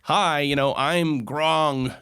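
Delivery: a hint of a friendly robot announcing itself. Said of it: "a robot voice that says".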